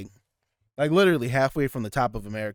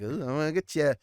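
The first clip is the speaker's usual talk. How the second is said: Riddler voice; 3 semitones higher than usual. Retold or imitated. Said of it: "the Riddler".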